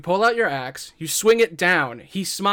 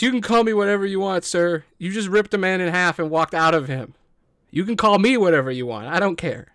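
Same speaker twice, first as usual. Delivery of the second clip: awed gushing bandit; 3 semitones higher, faster than usual. Acted. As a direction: gush at the new boss.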